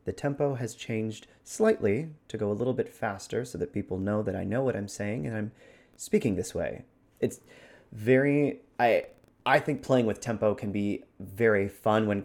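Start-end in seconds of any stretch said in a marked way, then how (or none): 0.0-6.8 measured but slightly quicker, easier delivery; methodical, less severe. Shown as a demonstration. Host contrasts with the threatening version, methodical and less severe. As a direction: calmly show you know what you're saying. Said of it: "My voice is less severe".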